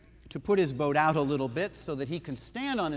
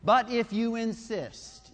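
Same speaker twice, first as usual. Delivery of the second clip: slow, louder, grudging concession; reluctant giving in; 6 semitones higher, 4 dB louder, slower than usual. Retold or imitated. Peter giving in to Jesus, slow and grudging. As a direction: drag it out like a man who's lost the argument. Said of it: "you can hear him saying".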